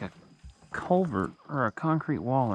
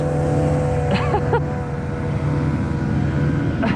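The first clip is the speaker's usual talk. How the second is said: excited laugh; 5 semitones lower, 8 dB louder than usual. Real, not acted. Landing the fish.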